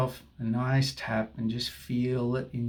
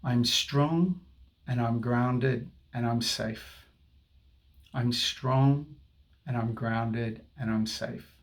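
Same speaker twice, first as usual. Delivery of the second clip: slow, steady affirmation voice; soothing tapping guide; guided affirmation; slower than usual. Acted. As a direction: speak each phrase as a calming mantra.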